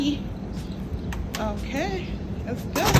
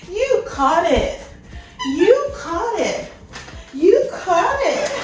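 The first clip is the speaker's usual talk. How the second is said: laughing praise; 3 semitones higher, slower than usual. Real, not acted. Delighted puppy caught something.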